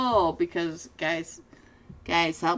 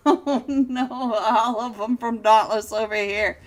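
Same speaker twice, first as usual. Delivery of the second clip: laughing; 5 dB louder than usual. Real, not acted. Laughing at the fight.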